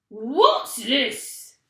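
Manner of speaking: loud shocked gasp of a question; Mister Twit gasping. A narrator's reading. Mister Twit enters his upturned living room, loud shocked gasp. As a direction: blurt it out in shock. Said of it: "gasped Mister Twit".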